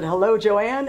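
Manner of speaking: hint of Southern-charmer accent. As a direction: mimic a charming Southern drawl, lightly. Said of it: "he did that with a Southern charm".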